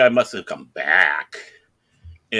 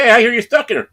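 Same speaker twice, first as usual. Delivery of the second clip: raised, high call through a door; 12 semitones higher, 8 dB louder, faster than usual. Retold or imitated. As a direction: call to someone behind a closed door. Calling through bathroom door, acted.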